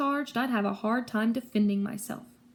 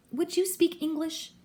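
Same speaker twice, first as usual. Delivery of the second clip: impatient interruption; 6 semitones higher than usual. A narrator's reading. Impatient interruption of technical talk.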